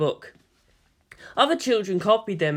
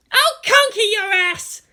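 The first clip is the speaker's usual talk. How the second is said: much higher, louder, slow defiant yell; Asuka shouting; 6 dB louder, slower than usual. A narrator's reading. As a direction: fire it back at the boy, contemptuous. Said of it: "Asuka shouted back at him".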